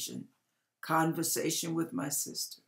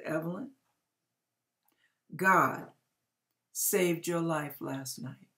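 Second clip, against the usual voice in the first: calm. Retold or imitated. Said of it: "I said very calmly".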